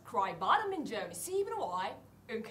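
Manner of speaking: slow, with a gap between 多い and うんこ; pause before うんこ. Shown as a demonstration. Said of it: "多いとうんこの間にちょっと間を空ける".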